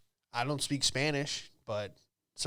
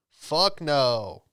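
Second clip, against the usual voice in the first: loud, flat fuck no; loud blunt refusal; 3 semitones higher, 6 dB louder than usual. Retold or imitated. Crowd turning down the magician, loud and blunt. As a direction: shut him down hard. Audience rejecting magician voiced.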